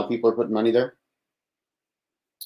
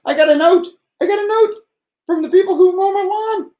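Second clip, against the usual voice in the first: excited storytelling; 3 dB louder than usual. Real, not acted. Excitedly starting lawn note story.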